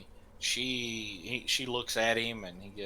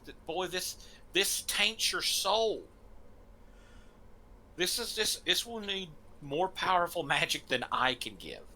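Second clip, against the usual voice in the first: grave priest; 6 semitones higher than usual. Acted. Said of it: "He goes".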